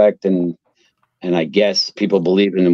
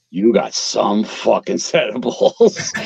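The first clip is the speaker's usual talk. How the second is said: drawn-out retold amazement; slow, impressed captain's verdict; slow punchline; slower than usual. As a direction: stretch it out, savoring each word.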